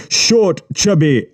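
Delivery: Short, chubby said high and mocking; scornful quoting. A narrator's reading. Yubi mocking the boy's words, high and scornful. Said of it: "Short, chubby, and, (repeat)".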